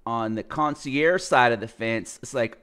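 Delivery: ordinary talk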